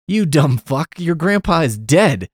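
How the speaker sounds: mock exasperated insult. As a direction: hurl it like an exasperated kid, half in fun. Kid berates other kid in retelling.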